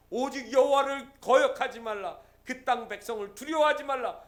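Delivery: loud, commanding exhortation; forceful command. Acted. Caleb commanding the crowd, loud and firm. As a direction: command the people not to fear. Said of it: "이렇게 얘기합니다".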